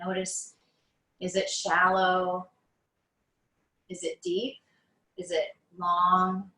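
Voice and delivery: unhurried meditation guide, long pauses between phrases; guided meditation. Acted. Teacher guiding listeners on mats through breath awareness, guided meditation. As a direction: ease them into noticing the breath, phrase by phrase.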